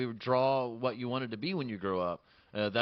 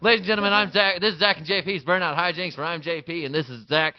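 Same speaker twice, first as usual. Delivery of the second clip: higher, louder host intro; show announcer; 4 semitones higher, 5 dB louder than usual. Acted. Restarts the show's intro as host.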